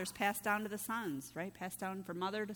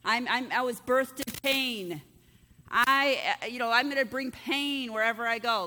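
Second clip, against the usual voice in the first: mock announcing; 6 dB louder than usual. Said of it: "has to go his whole life announcing".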